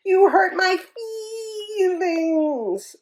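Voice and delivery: high, tearful wail fading to a cry. Acted. Elephant bully wailing to the hippo. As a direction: wail it out, voice breaking. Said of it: "and wailed".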